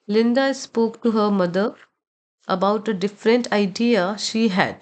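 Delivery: unstressed vowels in Linda, mother, about, idea reduced to 'uh'; slow model reading with weak endings on Linda, mother and idea; schwa demonstration. Shown as a demonstration. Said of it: "very quickly बोला जाता है".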